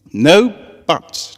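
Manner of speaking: rally the little ponies with a smile; cheerful teacher voice. Acted. Teacher Cheerilee calling her students to camp, bright and high.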